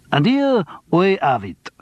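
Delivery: high, hammed-up French accent; exaggerated French accent. A narrator's reading. Presenter rehearsing a crime show, exaggerated French accent. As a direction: lay on the French accent thick. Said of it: "in an exaggerated French accent".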